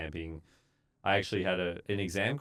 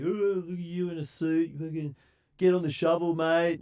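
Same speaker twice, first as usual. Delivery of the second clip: higher, louder teasing jeer; mocking workers; 11 semitones higher, 6 dB louder than usual. Big Tongan workers teasing the boss, higher and loud. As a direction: rib the young guy in his suit. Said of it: "they're laughing at me".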